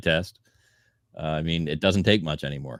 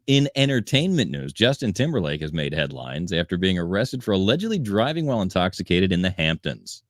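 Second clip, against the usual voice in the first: measured news-copy delivery; entertainment news read. A narrator's reading. Host reads the arrest report to co-hosts, news read.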